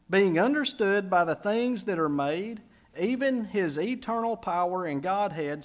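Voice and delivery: solemn reading from Romans; scripture reading. Acted. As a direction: read the verse with weight. Reads scripture aloud.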